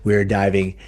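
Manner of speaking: projected podcast opening; podcast intro. Acted. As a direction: present the episode and welcome the guest. Scripted-sounding introduction to the show.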